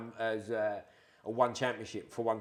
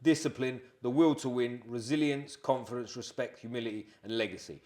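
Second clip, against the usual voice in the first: reading a list; slower than usual. Real, not acted. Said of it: "I'll read 'em, so people know".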